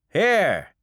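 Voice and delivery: high, loud call; bar owner calling. Acted. Bar owner sliding shots to his customers, loud call.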